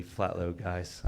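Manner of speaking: slow, drawn-out sarcasm; sarcastic. Real, not acted. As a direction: drag it out mockingly. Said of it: "I say it sarcastically".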